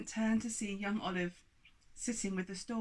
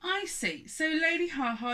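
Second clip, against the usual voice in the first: accusing giant; 9 semitones higher, 5 dB louder than usual. Acted.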